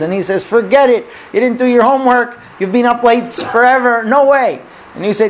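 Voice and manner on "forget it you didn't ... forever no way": higher-pitched, lightly voiced fed-up dad; mock stern refusal. Dad refusing his kid the car keys, mildly stern. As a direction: turn the kid down firmly, half in earnest.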